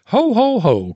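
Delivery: high, loud Santa laugh-call; Santa's ho ho ho. Acted. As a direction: belt out a hammy Santa. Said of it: "cried Santa".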